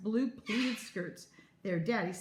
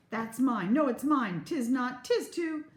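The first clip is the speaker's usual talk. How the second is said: put-on louder, higher bickering girl; quarreling child; 5 semitones higher, 5 dB louder than usual. Twin insists the petticoat is hers, loud bickering. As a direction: snap back and forth, mine, mine.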